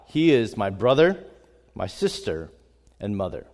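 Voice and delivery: measured, earnest Bible reading; scripture reading. Acted. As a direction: read it like scripture before a church. Reads Mark 3 aloud.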